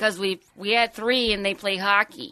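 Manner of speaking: lightly put-on Canadian accent. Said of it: "Your Canadian accent transitioned".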